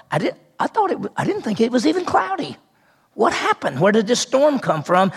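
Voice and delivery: a touch of puzzled disbelief, acted out; mildly baffled sailors. Sailors caught by a sudden storm, mildly baffled. Acting out the startled sailors' thoughts.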